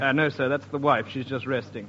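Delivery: put-on gruff old shop owner; low shopkeeper voice.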